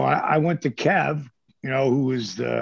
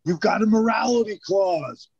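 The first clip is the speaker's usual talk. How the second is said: retold mild anger; 7 semitones higher than usual. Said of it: "he was like".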